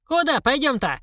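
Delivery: high-pitched bewildered question; stunned. A narrator's reading. Old woman questioning the stranger beside her body, stunned. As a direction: ask it high, completely thrown. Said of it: "ошарашенно спросила старуха".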